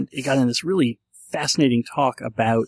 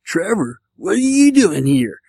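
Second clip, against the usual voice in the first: put-on over-the-top Californian accent, high and drawn out; exaggerated Californian accent; 7 semitones higher, 5 dB louder, slower than usual. Imitating sketch characters who all talk Californian, exaggerated Californian accent. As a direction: stretch it out in a hugely overdone, higher-pitched Californian accent. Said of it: "super exaggerated Californian accent".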